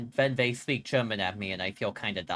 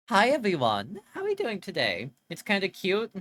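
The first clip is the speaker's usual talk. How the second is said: cutesy voice; 7 semitones higher, 4 dB louder than usual. Pretend. Cutesy high greeting to chat.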